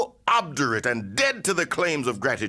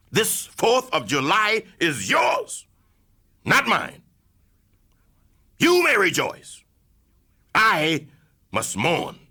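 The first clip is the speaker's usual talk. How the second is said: defiant outcry; 2 semitones higher than usual. Acted. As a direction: throw it back at the crowd with force. Orator's defiant climax.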